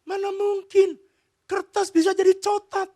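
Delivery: put-on high, loud little-girl disbelief; high childish protest; little daughter's voice. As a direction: cry out like a doubting small child. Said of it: "Dia bilang gini".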